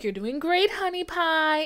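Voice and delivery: high, loud sweet granny voice; sweet old lady. Retold or imitated. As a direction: chirp it like a kind old lady.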